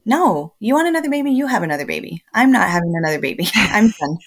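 sharp, high exasperated comeback; exasperated mother to family; fed-up retort. Retold or imitated. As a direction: tell them off, done with it.

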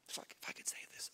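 whispered confession to the crowd; whispered aside. Real, not acted. Preacher admitting dark thoughts to the congregation, whispered.

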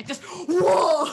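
sudden loud whoa; excited shout. Real, not acted. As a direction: blurt it out loud and high. Excited reaction mid laughter.

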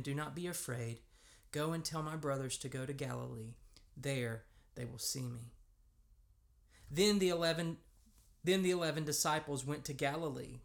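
measured, evenly paced Bible reading; formal reading with deliberate pauses; scripture reading. A narrator's reading. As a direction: read the passage aloud to a congregation. Reads the scripture passage aloud.

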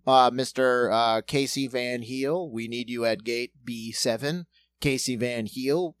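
intercom announcement. Retold or imitated. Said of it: "had anyone go over the intercom".

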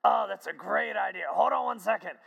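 light up at a great idea; retold delighted Harry. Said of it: "Harry's face lit up".

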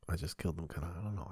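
hushed, breathy whisper, quick. Pretend. To listeners, admitting he's broke, whispered. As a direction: whisper it like a guilty confession. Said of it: "I can't fucking talk like that".

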